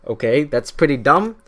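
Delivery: mock-smug musing that breaks into a laugh; smug Congress. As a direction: play Congress scheming, then cackle at the end. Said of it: "And then Congress was like".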